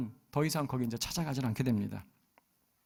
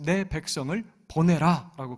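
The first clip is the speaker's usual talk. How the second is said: louder, slow bold cry; crying out boldly; 7 dB louder than usual. Retold or imitated. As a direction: call out the demand boldly. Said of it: "그렇게 외치고 있어요". (담대하게 외치는 소리)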